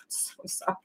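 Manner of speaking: breathy whispered sorry, barely there; whispered apology. Real, not acted. Reader apologizing to viewers for giggling, whispered. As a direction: breathe the apology out under your voice.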